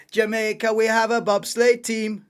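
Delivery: loud, excited film-quote delivery; Cool Runnings quote. Pretend. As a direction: shout it like the bobsleigh coach. Quoting Cool Runnings film line.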